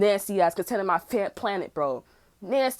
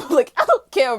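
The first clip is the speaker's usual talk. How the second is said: laughing; 5 semitones higher, 8 dB louder than usual. Real, not acted. Laughing after the comeback.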